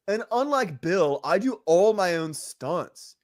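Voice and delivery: slow, halting, theatrical delivery; an old action star boasting, words drawn out; William Shatner. Acted. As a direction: play a cocky veteran actor, slowly. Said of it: "the Shatner and the Tsoukalos ones".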